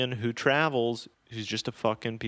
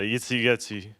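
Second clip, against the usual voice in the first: understated fake Eastern European; lightly voiced Eastern European gibberish; poor Eastern European accent. Shown as a demonstration. Comedian demonstrating his droop-faced act, in a rough Eastern European accent. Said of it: "my Eastern European accent isn't great".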